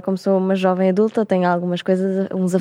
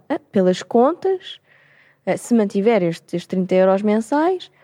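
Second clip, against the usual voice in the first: slow, careful bank manager working out sums; 2 semitones higher, slower than usual. Retold or imitated. Speaker quoting bank manager Ana calculating the pension, slow. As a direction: drag it out like doing the maths. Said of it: "E ela".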